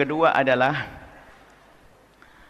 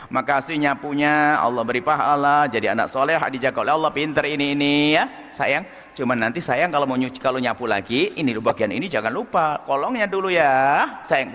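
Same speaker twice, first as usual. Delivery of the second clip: gentle mother. Retold or imitated. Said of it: "seorang tua yang baik".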